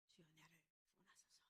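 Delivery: low, very soft plea to the Lord; hushed prayer. Acted. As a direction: pray it under your breath, low. Quiet prayer voiced within the sermon. (낮고 작게 읊조리는 기도)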